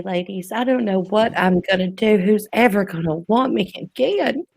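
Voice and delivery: put-on Southern belle lament. Host bemoaning her age to the ladies, mock Southern belle. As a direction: play a woebegone Southern lady. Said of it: "do it in my best Southern voice".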